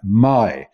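MY as the first syllable of Maidan; a clear, separate MY. Shown as a demonstration. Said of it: "is pronounced just that".

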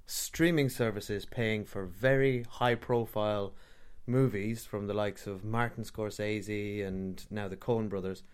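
slow, measured sales pitch; infomercial voice. Real, not acted. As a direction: read it like a TV ad host. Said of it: "why am I talking like some sort of infomercial".

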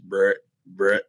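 short, throaty deer grunts; imitated buck grunts. Hunter imitating the approaching buck, grunting. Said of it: "I could hear him grunting".

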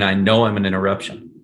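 "know" hammered, "I" light; stress on KNOW. Shown as a demonstration. Coach comparing the two openers, "know" hammered. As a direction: slide over "I" and hit "know". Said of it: "is exactly the same as the "no".

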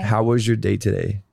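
careful American accent. Shown as a demonstration. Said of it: "Can you do an American accent?".

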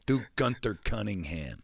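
mock coach request; lightly voiced Gruden; Gruden demanding. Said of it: "yells at him to do impressions".

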